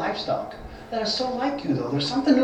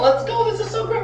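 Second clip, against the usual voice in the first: excited; 12 semitones higher than usual. Acted. John urges Peter excitedly.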